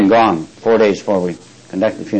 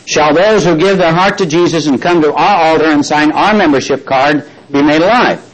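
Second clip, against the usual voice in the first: raised, measured King James reading voice; scripture reading; 4 semitones higher than usual. Acted. Preacher reading First Corinthians to the church, solemn raised reading voice. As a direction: read the verses out to the congregation.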